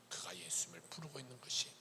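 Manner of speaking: soft whispered emphasis. Real, not acted. Preacher whispering to the congregation, hushed. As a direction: lean in and whisper.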